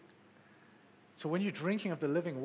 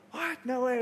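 higher, louder burst of surprise; astonished, pitched up and punchy; surprised retold reaction; 7 semitones higher, 4 dB louder than usual. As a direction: act out happy disbelief.

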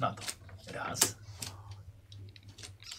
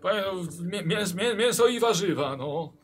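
high, stammering, growing louder; flustered stammer; 7 semitones higher, 4 dB louder than usual. Acted. Frightened innkeeper stammers an excuse to the armed guest. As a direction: scramble for an answer in panic.

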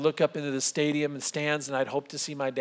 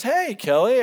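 high, louder hello back; cheery dad greeting; 9 semitones higher, 5 dB louder than usual. Retold or imitated. Dad answering his son's call, cheery. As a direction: imitate a delighted phone answer, pitched up.

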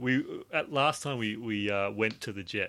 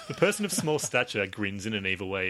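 laughing narration; 4 dB louder than usual. Acted. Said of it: "doesn't have the same effect".

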